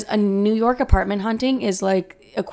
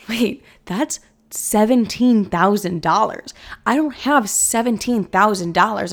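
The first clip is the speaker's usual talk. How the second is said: shocked; 2 semitones higher, 3 dB louder, slower than usual. Retold or imitated. Shock at the landlord's demand.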